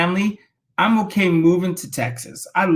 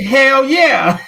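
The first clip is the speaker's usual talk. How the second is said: laughing yes; 6 semitones higher, 5 dB louder than usual. Retold or imitated. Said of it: "I said".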